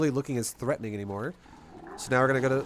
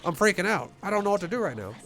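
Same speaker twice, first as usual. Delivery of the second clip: higher, hammed-up panicky rambling; imitating a panicking opponent, mock freak-out; 6 semitones higher than usual. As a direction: play a flustered player losing it, half joking. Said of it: "I don't have to be like".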